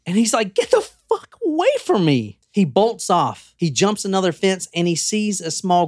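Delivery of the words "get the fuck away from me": retold yell. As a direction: act out yelling them away, pitched way up. Retold yell at stalking boys.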